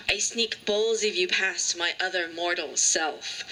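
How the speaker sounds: measured lines with pauses between phrases; deliberate, spaced-out poem recital; poetry reading. Acted. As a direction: recite a poem, drawing out line endings. Reads her pho poem aloud.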